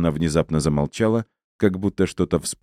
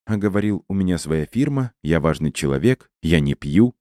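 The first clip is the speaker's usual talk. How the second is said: mildly accusing, lifted at the start; reproachful. Acted. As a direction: throw his own claims back at him reproachfully. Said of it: "с упрёком произнесла мама кошки".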